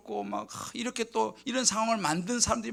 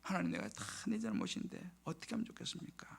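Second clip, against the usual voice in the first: whispered, helpless plea to God; retold hushed prayer; pleading prayer; 11 dB quieter than usual. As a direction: whisper the confession and question softly. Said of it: "이제 회개는 했어요".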